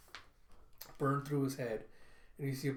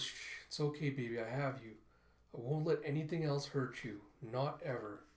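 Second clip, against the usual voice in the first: soothing father. Retold or imitated. Father soothes grieving daughter.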